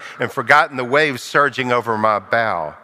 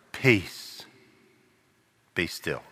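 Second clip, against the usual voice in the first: low, soft, hushed command; Jesus hushing the storm; calm command; 7 semitones lower, 10 dB quieter, slower than usual. Acted. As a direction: still the sea with a quiet word. Jesus speaks to the waves.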